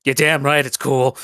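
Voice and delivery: slow, smug talking hammer; mimic chest. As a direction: lean in, proud and slow. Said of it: "says the fucking mimic hammer".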